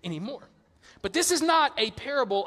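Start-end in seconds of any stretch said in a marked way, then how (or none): 0.0-0.5 higher, fed-up comic rant; mock exasperated God. God worn down by endless prayers, mock exasperated. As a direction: snap off each order in mock irritation. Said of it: "eventually he'll look at me and said".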